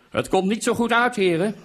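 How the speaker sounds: loud, high shout; calling downstairs. A narrator's reading. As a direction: holler it down to someone below. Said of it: "riep ik naar beneden".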